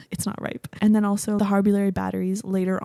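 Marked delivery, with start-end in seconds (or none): 0.1-0.7 Nebula quote. Retold or imitated. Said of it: "she's like".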